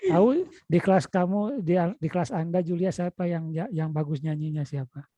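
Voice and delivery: normal talking voice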